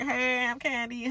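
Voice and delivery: soft, high mock-polite hello; high, restrained imitation greeting; composed greeting. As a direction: imitate someone keeping it together sweetly. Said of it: "she was trying to keep it together at first".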